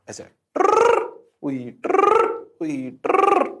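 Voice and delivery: high squeaky "ट्रर" noise; mock sound effect. Teacher mimics current spinning, squeaky sound effect. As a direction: make a silly whirring noise.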